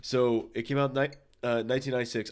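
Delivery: hiccuping mid-sentence; hiccups. Real, not acted. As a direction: talk through hiccups. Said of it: "I got the hiccups".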